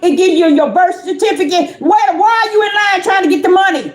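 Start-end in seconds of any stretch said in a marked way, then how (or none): 1.8-3.9 fast, raised, disbelieving outcry; incredulous shout. Acted. Preacher to congregation, rapid incredulous shout. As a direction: shout it like you can't believe it.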